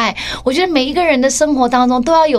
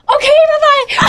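higher, stretched-out OK bye; higher slow nervous farewell; awkward slow goodbye; 12 semitones higher, 4 dB louder, much slower than usual. Retold or imitated. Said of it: "我就这样".

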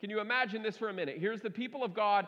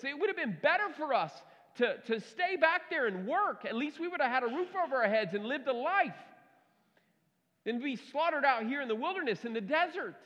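complaining Israelites; 5 semitones higher than usual. Acted.

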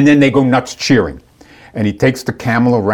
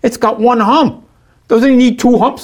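higher, baffled mock voice of the camel handler; puzzled delivery guy; 12 semitones higher, 3 dB louder than usual. Camel handlers questioning the one-hump camel, higher baffled mock voice. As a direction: play the handler, higher and puzzled, asking about humps. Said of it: "They go".

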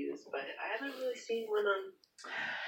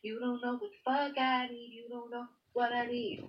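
angsty singer; 3 semitones higher than usual. Acted. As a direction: stretch it out with a touch of angst. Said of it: "So you get angsty, you get a little Alanis".

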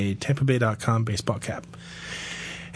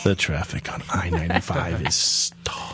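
low, slow radio traffic report; traffic reporter voice; 8 semitones lower, 4 dB quieter, slower than usual. Retold or imitated. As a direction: read it like a radio traffic anchor. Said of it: "I could be a traffic reporter".

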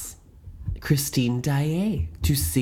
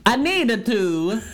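mock Italian accent; 8 semitones higher than usual. Mocking the film's Italian accent, in a high hammed-up Italian accent. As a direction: overplay a fake Italian accent, pitched high. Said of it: "doing an Italian accent".

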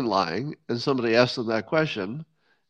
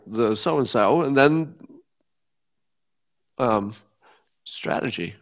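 higher, halting, rambling politician voice; Joe Biden impression; 4 semitones higher than usual. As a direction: ramble and lose the thread, pitched up. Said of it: "that's my Joe Biden impression".

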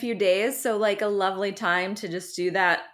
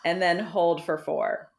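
slow, drawn-out counting for breathing; slow guided breathing count; slower than usual. Shown as a demonstration. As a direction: pace the breaths out slowly, like a breathing coach. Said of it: "you do it while I narrate".

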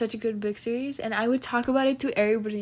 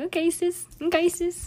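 higher-pitched, lightly dismissive retort; mock dismissive reply; 6 semitones higher than usual. Friend acts out her reply to test tips, mock dismissal. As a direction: brush off the advice in a raised voice.

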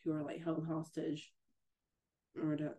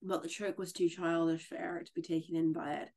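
lively read-aloud of a novel passage, a little louder; story reading; 4 dB louder than usual. A narrator's reading. Friend reads the Phantom novel aloud, livelier and louder. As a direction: read the scene to a friend, dramatically.

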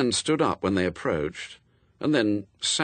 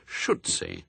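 ordinary delivery, nothing marked

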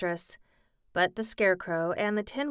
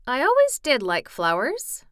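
Lion voice; 5 semitones higher, 7 dB louder than usual. Acted. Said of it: "said the Lion".

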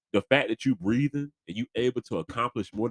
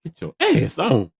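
mock yell; 10 semitones higher, 11 dB louder than usual. Mock yelling at old Undertaker.

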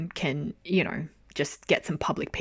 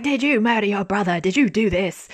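mock yell; 3 semitones higher, 5 dB louder than usual. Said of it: "he's yelling".

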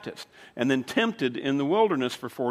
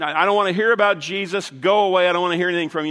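louder, slightly raised mock dismissal; retold angry rebuff; 2 semitones higher, 5 dB louder, faster than usual. Man at his door turning away a little girl, retold angry rebuff. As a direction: send an unwelcome caller away, loudly.

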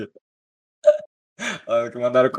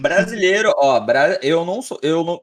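excited protest; 5 semitones higher, 6 dB louder than usual. Real, not acted.

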